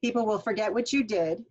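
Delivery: "People will forget what you did," read as one chunk, then stop; pause after the thought group. Shown as a demonstration. Teacher to students, marking the thought group with a pause at the end. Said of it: "thought group, stop".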